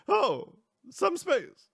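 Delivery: very high, loud mocking echo, drawn out; slow, loud, squeaky character voice; Renee. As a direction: pitch it way up and stretch the words out. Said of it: "you hear Renee's voice go".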